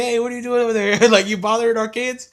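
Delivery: high, loud challenge with amusement; hammed-up confrontational yell; mock accusing shout. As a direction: imitate parents calling someone out. Acts suspicious parents calling over.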